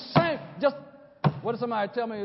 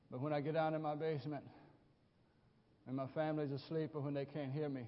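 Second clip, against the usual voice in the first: hushed confession; 9 semitones lower, 14 dB quieter, faster than usual. Real, not acted. Confiding aside to congregation.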